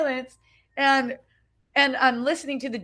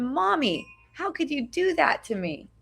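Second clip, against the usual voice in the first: a lightly voiced hurt child, a touch higher; little kid voice; 4 semitones higher than usual. Woman voicing her inner child crying to mommy, lightly childlike. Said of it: "sounded like me as a little kid".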